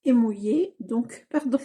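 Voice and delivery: speaking through hiccups; hiccuping mid-sentence. Real, not acted. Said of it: "j'ai le hoquet".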